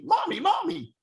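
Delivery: put-on very high, loud child's eager voice, fast at the end; excited little boy. Little son asking his mother who they will meet, excited child voice. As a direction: call out like a thrilled small boy. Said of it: "the way little boys do with the excitement in their voice".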